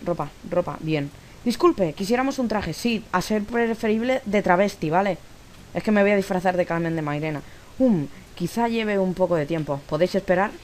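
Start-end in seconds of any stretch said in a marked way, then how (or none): 1.4-10.5 higher, playful read of the lines; a hint of acting the customer; lightly voiced shop dialogue. Reads game dialogue aloud.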